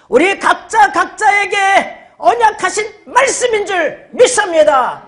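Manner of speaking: high, fervent scripture proclamation; preaching declaration. Real, not acted. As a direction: proclaim the promise to the congregation. Declares verse to congregation.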